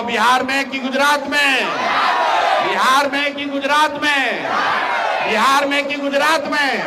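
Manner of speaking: loud repeated question to crowd; shouted question. Shown as a demonstration. Politician quizzing the crowd, shouting. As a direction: hammer the question home loudly. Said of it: "जोर से बोलो".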